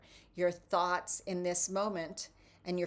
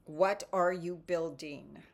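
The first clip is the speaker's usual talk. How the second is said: normal talking voice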